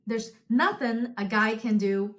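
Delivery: "nothing" leaned on, as quoted from the show; stress on NOTHING. Retold or imitated. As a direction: put the weight on NOTHING. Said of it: "put that stress on nothing".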